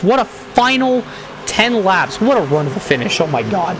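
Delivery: loud, winding down from the call; hoarse after the finish; excited wrap-up. Acted. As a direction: still buzzing, voice fading to normal. Post-race excited wrap-up call.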